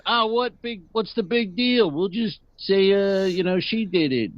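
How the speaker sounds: mock casual henchman; movie henchman. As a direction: brush it off like a bad villain.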